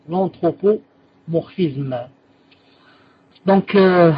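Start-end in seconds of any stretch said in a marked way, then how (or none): 0.1-2.0 very slow, syllable by syllable; drawn-out L'anthropomorphisme for writing down; slow dictation. Shown as a demonstration. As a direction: dictate it again for the notes. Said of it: "Est-ce que quelqu'un peut me les noter".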